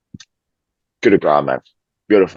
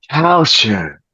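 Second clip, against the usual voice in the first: Culture said in a lightly put-on foreign accent, higher; mock foreign accent; 9 semitones higher than usual. Shown as a demonstration. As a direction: toss off Culture in a half-hearted other accent. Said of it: "It sounds so weird to say another accent".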